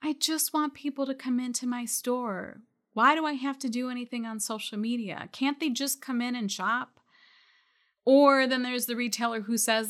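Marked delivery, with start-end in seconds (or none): 0.0-7.0 a light, mock whine from a reluctant shop owner; mild mock whining about social media; whiny voice. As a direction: lightly whine it out, like a complaining retailer. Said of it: "in a really whiny voice".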